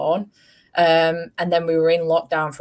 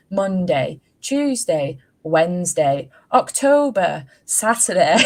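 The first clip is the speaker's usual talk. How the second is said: put-on toddler sing-song; 2 semitones higher, 4 dB louder, slower than usual. Imitating son's muddled sing-song.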